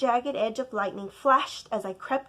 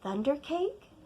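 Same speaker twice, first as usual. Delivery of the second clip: higher, questioning rise; puzzled little question; surprised child; 5 semitones higher than usual. Acted. Child surprised by grandma's idea, rising.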